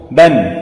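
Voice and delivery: بن said as bun, nunation with damma; tanween sound demo. Shown as a demonstration. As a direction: voice بن slowly as bun, tanween ending. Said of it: "مثلًا تقول".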